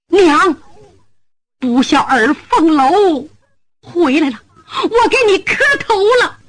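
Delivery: choked-up plea, rising; tearful son. Acted. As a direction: kneel and weep it out. Son kneels weeping before mother.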